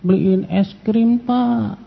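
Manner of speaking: a hint of a child's whiny begging; lightly voiced child begging for ice cream; whining child. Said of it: "Anaknya mewek sama bapak". (sedikit merengek seperti anak kecil)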